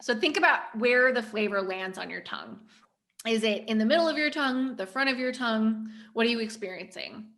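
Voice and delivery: talking while chewing; mouth full. Real, not acted. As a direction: talk through a mouthful of ice cream. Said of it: "talk with my mouth full".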